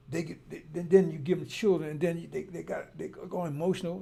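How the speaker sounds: loud, fired-up defence of the sisters; raising his voice for the sisters; heated rant. Real, not acted. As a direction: preach it hard and loud. Angry rant continues.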